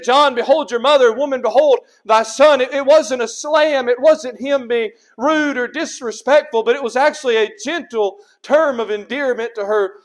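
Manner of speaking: loud, insistent pulpit voice; forceful preaching. Real, not acted. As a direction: preach it out, punching each item in the list.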